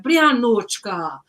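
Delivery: playful high-pitched impression of the strict host mom nagging. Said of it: "She's like".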